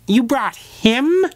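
high, loud, slow disbelief; stunned, drawn-out question. Acted. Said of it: "she said with disbelief".

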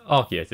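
Arceus said with a K sound, AR-kee-us; hard C. Shown as a demonstration. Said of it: "apparently it is Arceus".

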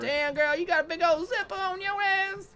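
high, sassy catcall; sassy girl voice. Pretend. Mock catcall about zipper.

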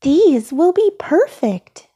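new customer. A narrator's reading. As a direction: pronounce it decisively as another shopper. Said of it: "said a voice behind Elmo".

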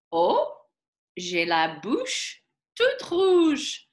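high, slow little rabbit delight. Acted. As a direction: squeal it like a delighted bunny. Rabbit character voiced in story.

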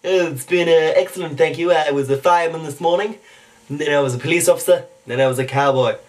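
cartoon character recounting his day; chatty cartoon impression; Stewie Griffin. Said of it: "Stewie Griffin".

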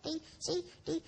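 ventriloquist voice swap, lips still; lips barely moving. Acted. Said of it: "the ventriloquist swaps voices with the puppet".

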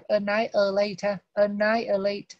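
annihilate with the h silent, "a-NAI-a-late". Shown as a demonstration. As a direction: drop the h in annihilate, stress the NAI. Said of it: "Ở đây không đọc chữ hạt".

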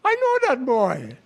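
put-on high-pitched party guest, Jewish accent. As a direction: boast of knowing him, in a Jewish accent. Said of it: "with a Jewish accent".

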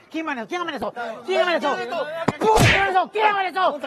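building angry demand. Acted. Official demands who threatened, building.

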